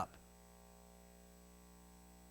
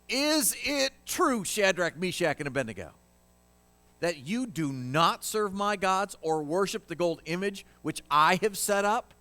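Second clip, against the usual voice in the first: higher, louder, outraged king; angry king; 5 semitones higher, 3 dB louder than usual. Acted. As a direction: demand it in a royal rage. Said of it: "He is angry and upset".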